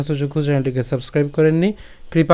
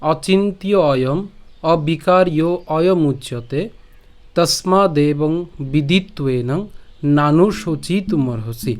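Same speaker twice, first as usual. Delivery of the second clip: slow, measured Sanskrit shloka recitation; unhurried scripture reading with clear pauses; verse recitation; much slower than usual. Shown as a demonstration. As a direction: recite the verse phrase by phrase, deliberately spaced. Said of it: "তো আজকের শ্লোকটি হলো".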